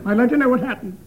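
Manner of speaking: disguised voice. Acted. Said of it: "read this in a disguised voice".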